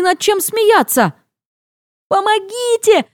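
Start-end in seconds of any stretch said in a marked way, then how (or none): 2.1-3.1 high pleading call for help; yelling for help. Retold or imitated. Stuck on a roof, calling to passers-by for help. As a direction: shout for help from the rooftop. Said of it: "принимаюсь вопить я".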